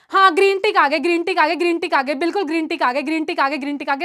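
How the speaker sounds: quick repetitive patter, fading away; rattled-off acknowledgement. Real, not acted. Teacher seeing green ticks arrive, rattled-off acknowledgement.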